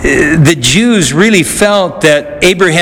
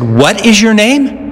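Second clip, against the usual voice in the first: higher-pitched, pressing repeat of the question; stern demand; 6 semitones higher than usual. Acted. Alexander demanding the soldier's name again, stern. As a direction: push him for an answer, a hint of threat.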